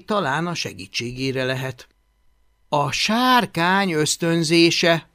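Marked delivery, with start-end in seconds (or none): 2.7-5.1 slow, raised, deliberate heading; reading aloud. A narrator's reading. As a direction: announce it like a title from notes. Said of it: "olvasta hangosan".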